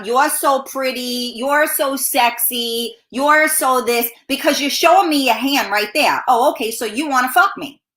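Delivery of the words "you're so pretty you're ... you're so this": mock flirting. Shown as a demonstration. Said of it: "Don't start with a".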